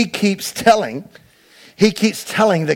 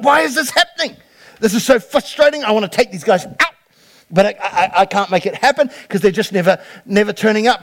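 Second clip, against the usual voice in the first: frustrated king; 2 semitones higher than usual. Retold or imitated. King complaining to his men, mildly frustrated. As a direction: whine it like a baffled king. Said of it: "He's like".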